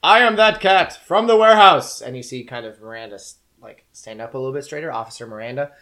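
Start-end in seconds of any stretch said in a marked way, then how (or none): 0.0-2.0 high, slow booming demon cat; slow booming creature voice. Acted. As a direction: boom it out like an otherworldly cat. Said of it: "this booming sort of "I am" kind of voice".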